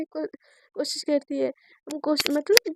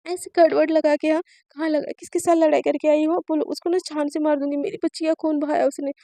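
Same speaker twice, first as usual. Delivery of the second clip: louder furious mother's rant; angry mother; 5 dB louder than usual. Acted. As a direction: threaten whoever hurt her child. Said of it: "बहुत ज़्यादा गुस्सा करने लगती है". (गुस्से में माँ, ज़ोर से धमकाती हुई)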